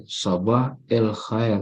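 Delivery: "sabah el khair" slow, linked with an e sound; colloquial Egyptian pronunciation. Shown as a demonstration. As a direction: say "sabah el khair" slowly with kasrah "el". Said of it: "kalau bahasa-bahasa Amiyah itu pasti selalu kasrah".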